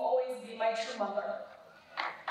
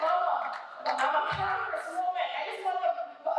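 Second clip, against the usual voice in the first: mock protest; 5 semitones higher than usual. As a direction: push back at Mama, half laughing. Arguing back with her mother.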